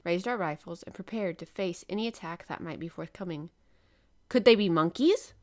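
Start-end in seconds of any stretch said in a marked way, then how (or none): 4.3-5.3 Ned bursts out with a loud startled question; loud, alarmed guess blurted out; exclaiming. A narrator's reading. Sailor warns his companions, exclaiming loudly. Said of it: "exclaimed Ned Land".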